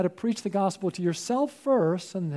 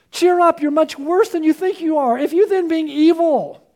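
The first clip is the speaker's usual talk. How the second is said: fervent preaching; 6 semitones higher, 5 dB louder than usual. Acted. Preacher voicing Jesus, rising fervor.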